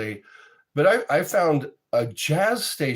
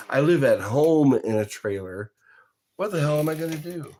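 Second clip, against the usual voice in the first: quoting a rapper; 3 semitones higher, 4 dB louder, faster than usual. Retold or imitated. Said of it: introduced as something the rapper said.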